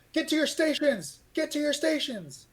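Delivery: high-pitched bellowed command; officer shouting soldiers to their stations; shouted order. Acted. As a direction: call the troops to their posts over the bells. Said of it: "They're like".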